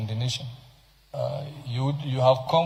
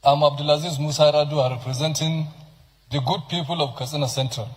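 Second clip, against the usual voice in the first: campaign voice. Shown as a demonstration. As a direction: announce yourself like at a rally. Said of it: "Use your campaign voice".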